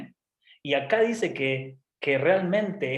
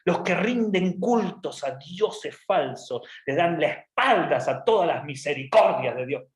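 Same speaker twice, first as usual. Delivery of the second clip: slow, emphatic declamation; Jonah's pompous prayer. Acted. Jonah denouncing idol worshippers, pompous and righteous. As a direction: hammer the key words with mock solemnity.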